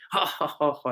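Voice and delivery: mock "ha, ha, ha" laugh; put-on laugh; imitated laugh. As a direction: imitate the Dutchman bursting into laughter. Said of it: "he starts laughing".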